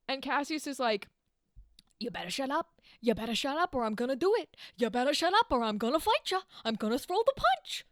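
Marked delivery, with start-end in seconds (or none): 2.0-7.8 put-on petulant baby. Cassius threatens Brutus with a punch, petulant baby voice. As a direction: build from a mutter to a squeaky, rushed tantrum. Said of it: "like a petulant little baby child".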